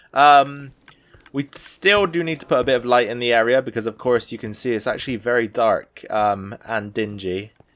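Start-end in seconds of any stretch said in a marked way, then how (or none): 6.1-7.4 slow, halting, thinking-aloud delivery. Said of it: "The reason I'm talking so slow".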